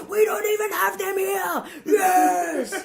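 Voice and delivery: high, loud mock triumph; excited. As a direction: cheer it out, laughing. Mocking family's overreaction.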